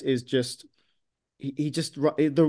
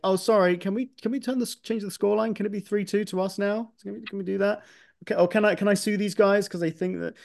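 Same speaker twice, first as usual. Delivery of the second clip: higher-pitched mock plea, begging the courts to change the score; mock pleading; 6 semitones higher than usual. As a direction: play a whiny fan asking for the result to be overturned.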